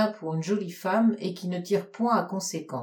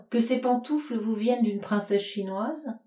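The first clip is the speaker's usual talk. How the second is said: jealous coquetry; 3 semitones higher than usual. Acted. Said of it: "avec un accent de coquetterie jalouse".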